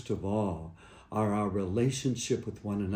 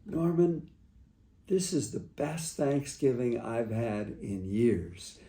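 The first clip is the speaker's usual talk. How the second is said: tender mother; 4 dB quieter, slower than usual. Retold or imitated. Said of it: "my mom said to me".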